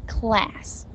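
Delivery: class said softly with a curled-tongue L; soft model of the L in class; dark L. Shown as a demonstration. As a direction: curl the tongue first, then class. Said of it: "先卷舌头再发了".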